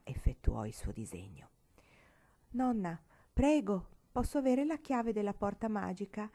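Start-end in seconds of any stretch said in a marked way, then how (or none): 2.5-6.3 gracious asking. Acted. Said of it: "chiese con tanta grazia".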